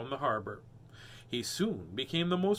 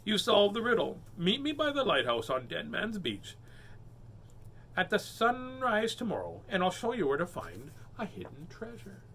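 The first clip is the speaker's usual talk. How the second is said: mermaid with a chuckle; 5 semitones higher than usual. Acted. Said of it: "said the mermaid with a chuckle".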